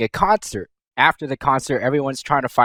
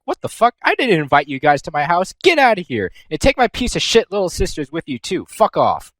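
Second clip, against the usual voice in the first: mock-furious shout, pitched up; angry Blanc; 3 semitones higher than usual. Blanc throwing the guests out, hammed-up angry shout. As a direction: bark it out in hammed-up annoyance. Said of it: "Blanc is all like".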